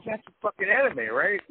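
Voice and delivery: squealed that's an anime; excited disbelief. Retold or imitated. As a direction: blurt it out like a fanboy. Mock excited reaction to name.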